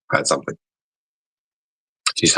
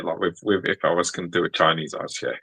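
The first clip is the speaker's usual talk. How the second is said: talking quiet; 5 dB quieter than usual. Real, not acted. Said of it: "of course I'm talking quiet".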